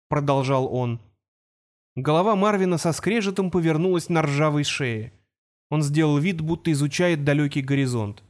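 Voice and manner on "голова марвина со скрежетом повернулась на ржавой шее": usual speaking voice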